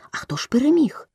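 високе, зацікавлене запитання; спитай із помітним підйомом голосу; запитально. A narrator's reading. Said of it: "і запитували". (допитливо, вище звичайного)

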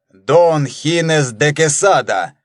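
name pronounced slowly with a fall; Дон Хинес де Кесада, slow and grand; solemn voice. Acted. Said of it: "торжественным голосом начал".

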